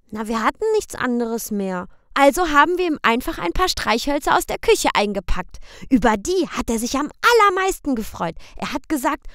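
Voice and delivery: put-on high, loud little boy's question; high child's voice; child asking. A narrator's reading. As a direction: ask papa like a worried small boy. Boy Michel tells.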